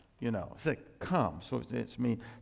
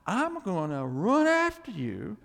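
voicing God; 8 semitones higher than usual. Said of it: "what he's telling us is".

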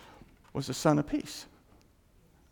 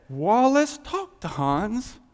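God's voice; 4 semitones higher, 4 dB louder, slower than usual. Retold or imitated. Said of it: "God could have said".

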